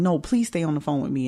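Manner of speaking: put-on, fearful, scared, pleading voice. Retelling a son's call, imitating a fearful plea. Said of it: "I heard the fear in his voice".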